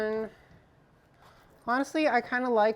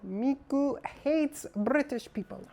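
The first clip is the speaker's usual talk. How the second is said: light imitation of Miku, a touch higher; 4 semitones higher than usual. Streamer quotes the Miku meme to chat, lightly imitating Miku. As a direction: lightly mimic Miku saying "hates". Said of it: "however you, she says it".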